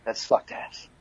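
hoarse, strained after choking; gasping out words. Real, not acted. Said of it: "Went down the wrong pipe".

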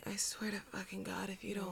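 hissed, half-awake menace; whispered threat. Acted. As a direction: whisper the threat through sleep.

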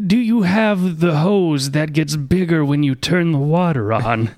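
slow, silly put-on voice; teen prank caller asking a ridiculous question. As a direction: ask it like a clueless customer. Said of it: "And be like".

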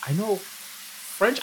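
slow, wondering; awed realization. Acted. Player realizing a new power, slow and awed. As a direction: let it dawn on you slowly.

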